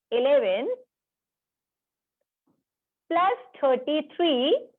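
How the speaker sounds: slow, spaced-out number calling; slow dictation. Real, not acted. Teacher calls out a sum for the class, slow dictation. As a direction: dictate each number slowly, drawing it out.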